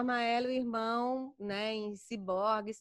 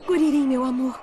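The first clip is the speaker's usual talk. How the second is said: light, affectionate voice, much louder; Eighteen as a loving wife; 2 semitones higher, 13 dB louder than usual. Shown as a demonstration. Voice actress demos Eighteen greeting Kuririn, light and loving. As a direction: greet him sweetly as a fond wife. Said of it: "é o teu timbre normal ou você tem que deixar mais leve?".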